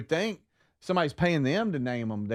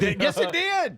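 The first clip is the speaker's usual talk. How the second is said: insistent; 12 semitones higher than usual. Real, not acted. Insisting in an argument.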